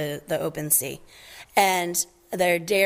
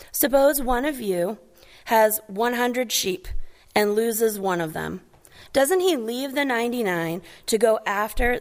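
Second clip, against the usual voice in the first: measured, slightly raised Bible reading voice; scripture reading; 3 semitones higher than usual. Acted. Pastor reading Luke to congregation, measured scripture reading. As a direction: read the parable to the congregation, lifted and deliberate. Reads scripture passage aloud.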